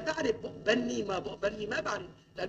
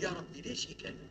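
tearful plea; 7 semitones lower, 12 dB quieter than usual. Retold or imitated. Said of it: "أنا أقعد أبكي".

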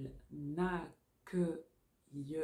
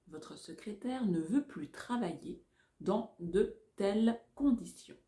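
dictating. Shown as a demonstration. Dictation repeated in chunks.

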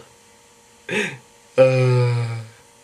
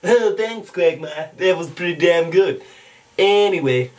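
cartoon host's approval; lightly affected cartoon impression; Stewie Griffin. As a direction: give offhand praise in a cartoon voice. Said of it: "back over to Stewie Griffin".

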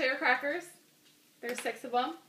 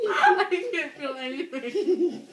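laughing with mouth full; 4 semitones higher than usual. Real, not acted. Laughing through mouthful of crackers.

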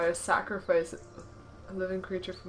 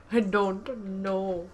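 slow, louder, stretched I don't know; drawn out; 5 dB louder, much slower than usual. Real, not acted. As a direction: stretch every word. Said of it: "repeated slower".

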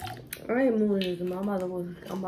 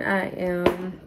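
tipsy. Real, not acted. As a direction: talk a little tipsy. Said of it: "beyond tipsy now".

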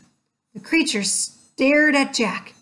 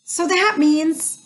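slow, halting thought, pitch raised; drawn out, unsure; slow trailing off; 6 semitones higher, slower than usual. Acted. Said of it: "said Jack".

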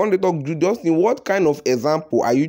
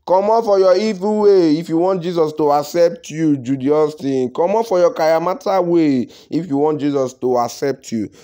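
louder preachy scold; 4 dB louder than usual. Acted. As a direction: lecture her like a preacher. Scolding Judy directly.

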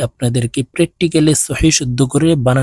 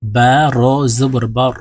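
slow spelling out; slower than usual. Shown as a demonstration. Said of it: "দেখুন".

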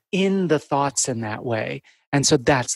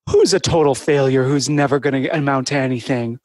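talking to a dog; 3 dB louder than usual. Shown as a demonstration. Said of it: "saying my thoughts as if I'm talking to a dog".

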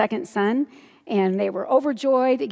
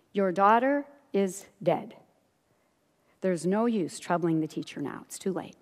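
softer and lower, trailing down; grave news-breaking; 4 semitones lower, 5 dB quieter than usual. Acted. Messenger breaks news of a death.

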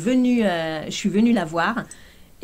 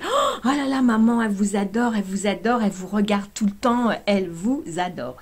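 excited fan gush; 2 semitones higher than usual. Retold or imitated. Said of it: "et elle me dit".

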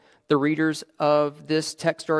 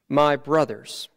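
slow, deliberate reading; 3 dB louder, slower than usual. Shown as a demonstration. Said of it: "these first two words set the tone".

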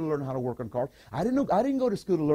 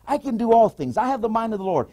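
loud declaration; 6 semitones higher, 7 dB louder than usual. Shown as a demonstration. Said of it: "say that when you're taking tests".

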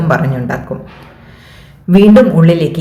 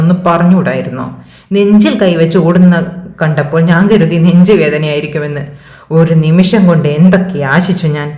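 mock disappointment; 2 semitones higher than usual. Kiran teasing Manu outside the staff room, mock letdown. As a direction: tease him, pretending to be let down.

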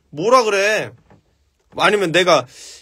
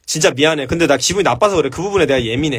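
gentle apology demo; 4 semitones lower than usual. Shown as a demonstration. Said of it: "이렇게 얘기하잖아".

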